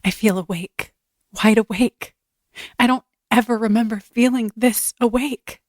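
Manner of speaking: dreamy film heroine waking up; dramatic reading. Acted. Actress reads the assigned film line, wonder-struck. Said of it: "read the awake one".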